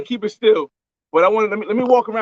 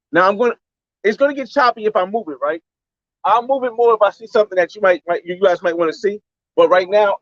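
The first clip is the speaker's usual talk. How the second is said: ordinary talk, nothing marked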